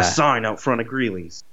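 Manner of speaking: words pushed out "A sign out front of Greeley's" through barely open teeth; through his teeth. Retold or imitated. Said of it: "You know how he talks through his teeth?".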